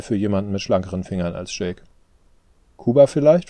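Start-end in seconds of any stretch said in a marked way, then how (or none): 2.8-3.5 higher and louder, hopefully asking; hopeful question. Acted. Father to son, hoping he fled to Cuba, hopeful. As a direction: lift the voice in eager hope. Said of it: "fragte er hoffnungsvoll".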